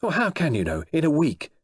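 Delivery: high, strained, rising outrage; enraged protest. A narrator's reading. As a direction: Dick flares up, losing control. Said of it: "stammering with rage and anger".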